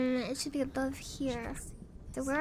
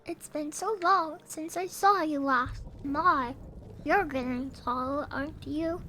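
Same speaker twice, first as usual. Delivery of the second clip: lightly voiced doting grandma; 3 dB louder than usual. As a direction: coo like a fond granny. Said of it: "mandatory to say stuff like".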